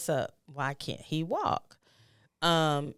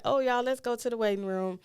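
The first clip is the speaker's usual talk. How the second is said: retold announcement; 8 semitones higher than usual. Taking a hint, clearing the room.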